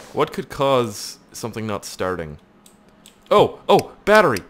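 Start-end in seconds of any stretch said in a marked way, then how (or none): 3.3-4.4 mock excited shout. Mocks chat's shouted suggestion.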